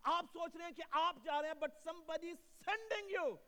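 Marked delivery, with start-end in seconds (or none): 1.6-3.4 slow emphatic delivery. Real, not acted. Preacher slows to drive point.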